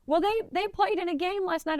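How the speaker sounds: high mock stranger voice; Texan man. Stranger tells her about the game, high mock voice. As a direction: lightly voice the cowboy. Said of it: "he says".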